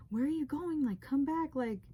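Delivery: half-hearted retold shout of come back; pleading call toward someone walking away; mock yell. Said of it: "like, yelling".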